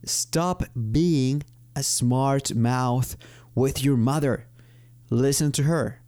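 very slow example sentence; slow model sentence. Shown as a demonstration. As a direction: read the warning slowly for learners. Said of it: "For example". (ejemplo leído muy despacio)

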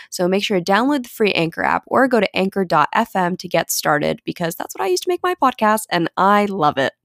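upbeat sponsor read, steady and bright. Acted. Host reading the Anchor sponsor spot, upbeat ad read.

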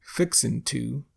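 "fixin'" ending in n, full "to"; dropped G. Shown as a demonstration. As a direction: drop the g in "fixin'". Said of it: "we say".

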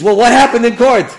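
high, loud question; excited. Retold or imitated. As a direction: ask it eagerly. Eager question.

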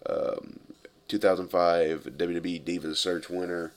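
quiet and sincere tribute; somber. Real, not acted. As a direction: softly pay your respects. Condolences for a death.

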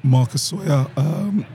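hoarse, husky speaking voice. Real, not acted. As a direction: talk with a husky rasp. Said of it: "I've got my husky voice on today".

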